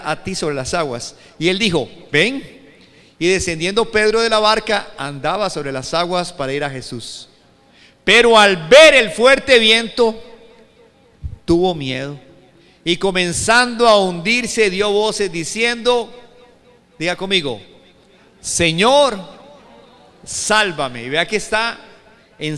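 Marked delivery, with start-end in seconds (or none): 1.4-16.1 loud, emphatic scripture reading; lectura bíblica enfática. Acted. Sigue leyendo el pasaje con fuerza. 18.4-21.0 mildly raised, declaimed plea for rescue; grito de desesperación. Acted. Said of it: "era un grito de desesperación".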